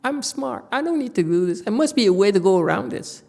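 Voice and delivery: a teacher mimicking a pupil who wants an easy way; mock whining. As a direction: act out a student sulking about the effort. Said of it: "you whine".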